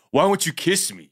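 very high, creepy, pleading man's voice. Retelling what a man said, doing his voice: imitating a man's voice. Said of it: "hear this man's voice".

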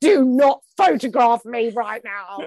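put-on loud, deliberate, proper diva outburst. Retelling being photographed on the wall: imitating her own diva outburst. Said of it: "a proper diva".

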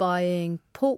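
ordinary delivery

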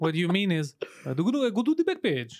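attempted Greek accent. Struggling to imitate how a Greek man talks, in an attempted Greek accent. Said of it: "imitate a Greek accent".

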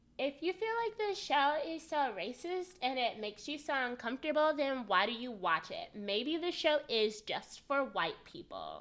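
high, put-on woman voice. Quoting a white woman's DM about the show, impersonating a white woman. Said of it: "a good impersonation of a white woman".

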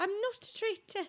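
high-pitched, failed attempt at a Welsh accent. Recalling a Welsh person from the first season, attempt a failed Amanda impression, Welsh accent. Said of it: "try to do a Welsh accent".

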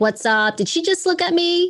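Queens, New York street accent. Describing growing up in Queens, the speaker demonstrates how everyone talked there: Queens accent. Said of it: "we all talk like we're from Queens".

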